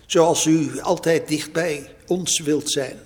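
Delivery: calm, measured prayer voice. Acted. Pastor leads opening prayer.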